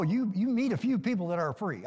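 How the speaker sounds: "few" leaned on for emphasis; stress on FEW. Real, not acted. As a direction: put the weight on the word "few". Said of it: "I did emphasize the word few".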